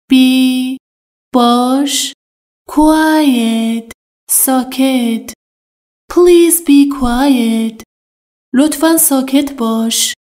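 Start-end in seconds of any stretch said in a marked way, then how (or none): 6.1-7.8 slow, each word laid out clearly; slow model sentence. Shown as a demonstration. Teacher to Persian learners, slow and clear. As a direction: spell it out slowly for learners. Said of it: "teacher repeats the model sentence".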